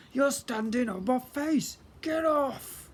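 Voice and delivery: high, slow, loud complaint; grumbling lawn. Acted. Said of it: "the lawn grumbled".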